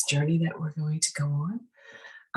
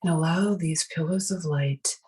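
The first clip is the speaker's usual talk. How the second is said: guided meditation. Acted. Meditation leader guiding listeners to breathe and release tension, guided meditation. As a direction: guide them gently through each breath, unhurried.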